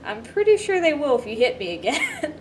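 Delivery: a laughing, teasing threat; laughing reply. Retold or imitated. Answering the nervous friend, laughing playful warning. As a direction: chuckle through a playful warning.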